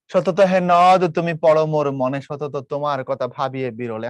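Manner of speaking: stretched poetic line, falling away at the close; measured verse reading, easing down; poem recitation. Acted. Recites the poem's opening.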